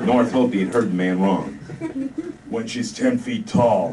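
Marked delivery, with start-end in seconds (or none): 2.5-3.9 stoned private answering his lieutenant, spaced out; dazed stoner. Acted. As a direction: drift through it stoned. Stoner quoting song lyrics.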